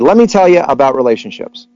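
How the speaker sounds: imitating a rabbi's Jewish accent. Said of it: "with a deep Jewish accent".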